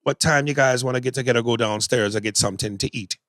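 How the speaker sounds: a casual, lightly voiced Jamaican accent done as a fair attempt; own Jamaican accent. Shown as a demonstration. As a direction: show how a Jamaican accent should run, steady throughout. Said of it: "I'm not the best Jamaican accent".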